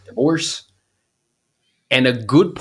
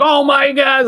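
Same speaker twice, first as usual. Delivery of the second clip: much higher and louder, a shocked squeal; mock outraged gasp; 6 dB louder, slower than usual. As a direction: play the horrified follower clutching pearls. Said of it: "people freak out".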